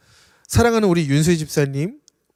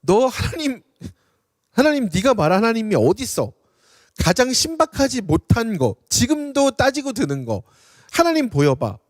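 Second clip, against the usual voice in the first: mocking jeer; 4 semitones higher than usual. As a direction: sneer it at the prophet, daring him to prove God. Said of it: "뭐라고 조롱하냐면". (예레미야를 조롱하는 비웃는 말투)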